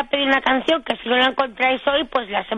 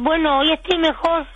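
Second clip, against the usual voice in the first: real lost-voice hoarseness; hoarse; 5 semitones higher than usual. Real, not acted. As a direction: reassure through a worn-out voice. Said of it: "muy afónica".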